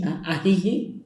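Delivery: "Ah, ah, ajiji" in a put-on rustic voice; local expression. Shown as a demonstration. Showing how locals say yes indeed, in a lightly put-on voice. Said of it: "en vez de decir así sí".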